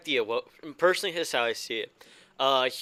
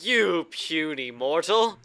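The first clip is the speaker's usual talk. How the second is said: slow, grand robot taunt; booming machine voice; 4 semitones higher, much slower than usual. Pretend. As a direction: sneer down like a mighty machine. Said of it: "I was like".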